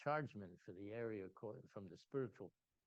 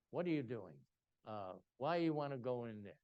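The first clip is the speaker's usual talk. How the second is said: lightly voiced official, louder questioning; Mister Authority; 6 dB louder than usual. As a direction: imitate an official interrogating newcomers. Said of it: "was like Mister Authority".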